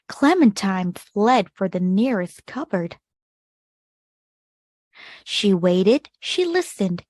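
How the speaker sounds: put-on gentle read-aloud for children, measured pace; storybook narration. A narrator's reading. Teacher reading a picture book to kids, expressive narration. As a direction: tell the tale to a class of young listeners.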